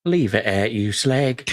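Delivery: Cockney. Pretend. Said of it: "says it in that Cockney voice".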